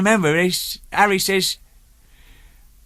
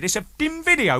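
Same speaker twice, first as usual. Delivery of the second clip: mock exasperation; 11 semitones higher than usual. Retold exasperated reply to customs.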